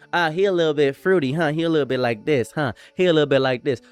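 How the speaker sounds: imitating a woman's Black accent, lightly teasing; mock gossip in a light Black accent. Woman gossiping about a fruity man, light Black accent. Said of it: "Feel like I'm putting on a black accent every time I do that".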